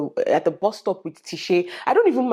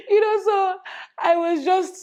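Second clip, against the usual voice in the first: 1 real high laugh; 12 semitones higher, slower than usual. Real, not acted. Laughs at own joke.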